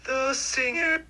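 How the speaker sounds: high, slow falsetto. Shown as a demonstration. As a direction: float it up in falsetto. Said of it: "do it again, but in a falsetto".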